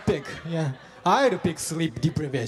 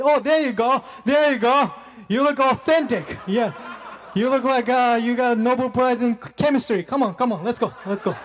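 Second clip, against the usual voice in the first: mocking casting director; 2 semitones higher than usual. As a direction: sneer it like a pushy casting agent. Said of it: "they're like".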